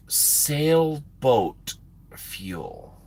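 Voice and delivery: very slow, drawn-out disbelief; dumbfounded. Retold or imitated. Trucker answering a clueless officer, slow dumbfounded retort. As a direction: stretch each word out as if it can't be real.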